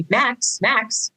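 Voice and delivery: calling out. Retold or imitated. People calling Max for attention.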